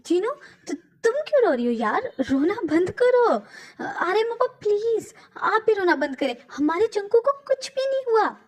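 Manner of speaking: agitated, rising pleading and scolding; wife beside the body insisting it is not him; frantic denial. Acted. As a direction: refuse to believe, near breaking.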